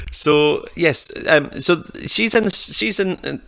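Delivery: high, bubbly voice after laughing; still giggling. Real, not acted. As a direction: push through the giggles back to topic. Giggly return to topic.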